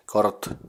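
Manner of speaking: "Kort" by itself, closed on a held-back t; isolated syllable. Shown as a demonstration. Teacher inviting English speakers to try it, "Kort" clearly isolated. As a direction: say "Kort" as one separate syllable. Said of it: "just try pronouncing it".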